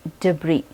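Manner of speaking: debris with a silent s, day-bree; debris said right. Shown as a demonstration. Teacher modelling debris for students. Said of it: "तो पहला word है".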